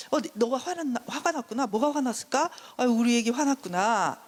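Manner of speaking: put-on tender, cooing to a baby; empathizing mother. Mother comforting her angry child, tender. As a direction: soothe an upset little one.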